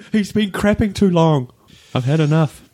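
fed-up guard. Retold or imitated. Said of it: "You imagine going".

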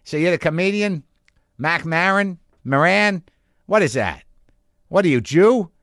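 imitated Boston-accent local; mimicked Boston heckler accent. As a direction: quiz the comedian in a Boston accent. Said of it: "every variation of that".

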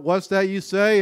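half-yelled group response; mock camper yell. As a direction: mildly imitate campers yelling back. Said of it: "the campers would yell out".

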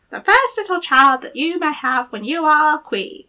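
high squeaky little goblin voice; gravelly sly hobgoblin. Acted. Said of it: "said the little man".

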